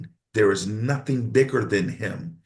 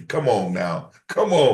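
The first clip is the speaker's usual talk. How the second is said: preacher's exhortation; 4 dB louder than usual. Real, not acted.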